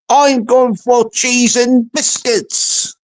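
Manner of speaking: slow, lightly Scottish troll; a hint of a blooming Scotsman, drawn out; Scottish accent. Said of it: "He sounds like a blooming Scotsman".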